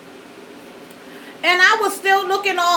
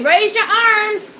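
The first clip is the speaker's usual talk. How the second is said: parent's command; 6 semitones higher, slower than usual. Retold or imitated. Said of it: "I tell my kids that".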